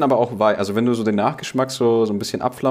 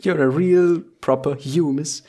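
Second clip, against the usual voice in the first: silly British voice; 5 semitones higher, slower than usual. Pretend. Silly put-on English voice.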